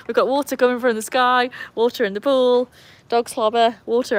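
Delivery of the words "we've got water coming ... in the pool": normal talking voice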